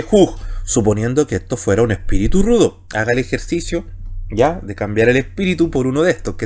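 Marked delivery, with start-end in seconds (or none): 0.0-0.4 "juj" with a guttural j at the start; rough breathing. Shown as a demonstration. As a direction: say "juj" opening on a throaty Spanish j. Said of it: "se tiene que leer J guturalmente".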